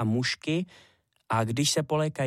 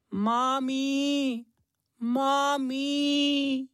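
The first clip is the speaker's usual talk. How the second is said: put-on much higher, small child calling out again; calling little hare; 13 semitones higher, much slower than usual. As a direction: call out for mum in a tiny voice. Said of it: "A venku volal zase".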